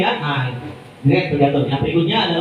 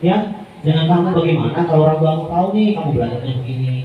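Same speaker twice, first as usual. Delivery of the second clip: soft guilt-tripping. Shown as a demonstration. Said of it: "Jadi dia nadanya lembut".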